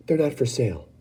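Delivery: Wonka refusing. Acted. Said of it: "Mister Wonka answered".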